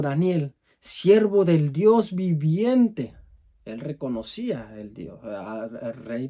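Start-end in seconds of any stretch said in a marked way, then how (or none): 0.0-3.1 sad calling out. Acted. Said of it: "con voz triste, dice, le gritaba".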